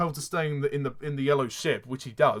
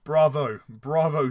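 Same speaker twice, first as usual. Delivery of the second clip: sarcastic; 6 dB louder, slower than usual. Real, not acted. Sarcastic applause.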